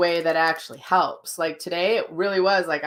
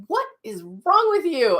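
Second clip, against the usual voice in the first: hairdresser's alarmed question; 11 semitones higher than usual. Retold or imitated. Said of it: "And she's like".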